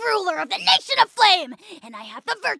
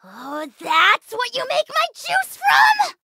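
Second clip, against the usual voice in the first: high, slow, appalled exclamation; dismay at hearing the source of the juice; shocked outcry; 6 semitones higher, slower than usual. Acted. Learning where his juice comes from, appalled outcry.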